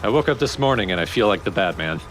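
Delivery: giggling through the meme quote; laughing. Real, not acted. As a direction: laugh while quoting it. Quoting meme while laughing.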